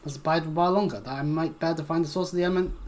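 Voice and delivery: lightly voiced absent-minded sage, fussy and formal; a hint of a wizard who lost his train of thought; mildly voiced archaic scholar excusing himself; distracted old scholar. Reads scholarly NPC aloud.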